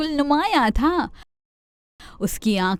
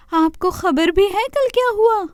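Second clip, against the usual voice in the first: much higher pleading deer voice; complaining deer; 8 semitones higher than usual. Acted. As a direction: tattle to Chanda Mama. Deer complains to Chanda Mama.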